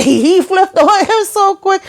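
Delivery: laughing through it, pitched high and drawn out slow; can't hold the laugh while telling it. Real, not acted. Recapping the show to viewers, laughing at the flip.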